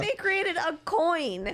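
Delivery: laughing. Real, not acted. Amused aside about Elon coin.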